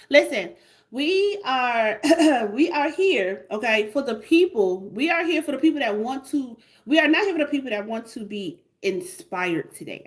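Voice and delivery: measured sermon cadence, leaning on tired; motivational speech. Acted. Motivational preaching run.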